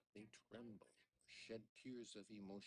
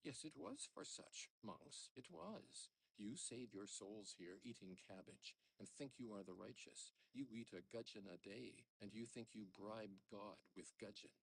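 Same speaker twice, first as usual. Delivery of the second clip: mocking old father; 2 semitones higher than usual. Father jeering at the monks. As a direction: taunt the monks.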